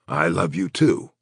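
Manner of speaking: hoarse, mumbled reply; hoarse mumble. A narrator's reading. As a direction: mumble it through a raw throat. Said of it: "Crow mumbled hoarsely".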